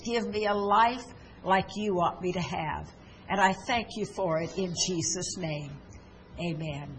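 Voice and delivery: earnest prayer led phrase by phrase; leading a prayer. Acted. Pastor leading broadcast viewers in a sinner's prayer, earnest and steady. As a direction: pray it aloud so they can repeat each line.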